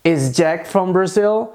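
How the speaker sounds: slow, careful question "Is Jack from Brazil"; question intonation. Shown as a demonstration. Teacher models the English question, asked slowly. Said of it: "se eu quiser perguntar".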